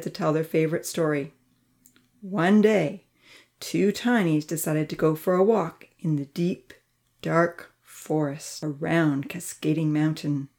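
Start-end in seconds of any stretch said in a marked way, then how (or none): 2.2-10.5 slowing, suspenseful tale-telling; embellished storytelling. A narrator's reading. Georgia distracts Charlie with a favorite story, embellished storytelling. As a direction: spin it out with long pauses. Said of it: "well-embellished, heroic tale".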